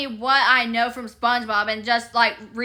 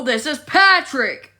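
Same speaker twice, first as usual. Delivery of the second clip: Patrick voice; slower than usual. Retold or imitated. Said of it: "it's like".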